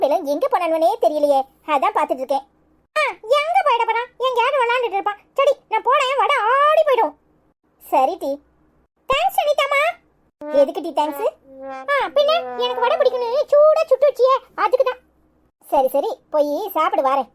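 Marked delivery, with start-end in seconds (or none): 3.0-7.1 put-on high-pitched little kid voice; high, playful kiddie voice; playful child. Child runs off to eat. 9.1-9.8 put-on high-pitched little kid voice; high, playful kiddie voice; playful child. Child thanks the woman. 11.9-15.0 put-on high-pitched little kid voice; high, playful kiddie voice; playful child. Child explains the thanks.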